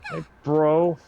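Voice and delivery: loud bro greeting; gym bro. Pretend. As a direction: bellow a hearty bro hello. Echo in bro voice.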